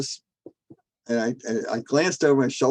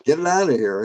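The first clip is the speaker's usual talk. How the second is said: retold scream; 4 semitones higher, 4 dB louder than usual. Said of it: "And I'm screaming".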